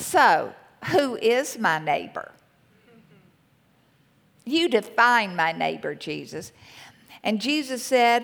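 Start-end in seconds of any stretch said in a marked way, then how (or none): 0.0-6.5 put-on biting, sarcastic snarl. Retelling the man's challenge to Jesus, in a mock snarly sarcastic tone. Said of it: "this snarly, sarcastic tone in his voice".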